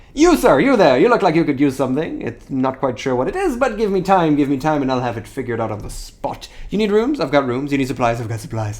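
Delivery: loud, excited, swooping rapid-fire salesman patter. A merchant calls out to a passerby, in a rapid-fire excited delivery. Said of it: "His rapid-fire delivery makes it difficult to understand him".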